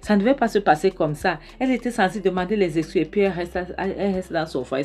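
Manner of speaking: mock an upset husband crying out to his mother-in-law; worked-up protest without real shouting; retold yelling. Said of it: "il commence à crier".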